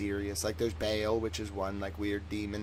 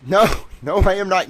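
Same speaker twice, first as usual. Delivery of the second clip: high, loud laughing denial; 9 semitones higher, 12 dB louder than usual. Real, not acted. Brushing off the viewers' question with a laugh. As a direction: laugh it off, louder and higher.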